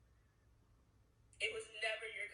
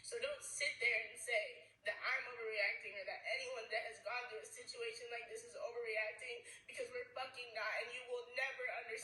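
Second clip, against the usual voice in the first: crying. Real, not acted. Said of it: "I've been crying".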